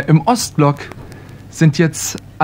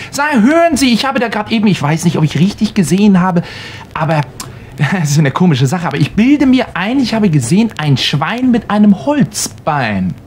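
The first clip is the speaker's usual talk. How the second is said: higher, hesitant inspector voice; sheepish official; 4 semitones higher than usual. Acted. Inspector confessing to the farmer, higher and hesitant. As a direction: stammer it out, half laughing at yourself.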